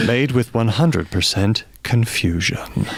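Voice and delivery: slow, low sultry read. Pretend. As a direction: seductive advert voice. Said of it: "I'm gonna do this in my sultry voice".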